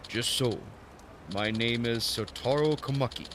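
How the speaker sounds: botched mock-Japanese old master; Temu Japanese accent. Old master introducing himself, bad Japanese accent. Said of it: "doing some Temu Japanese accent".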